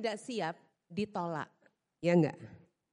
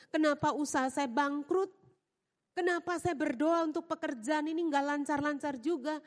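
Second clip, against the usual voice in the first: complaining believer. Retold or imitated. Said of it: "berpikir begitu kepada Tuhan".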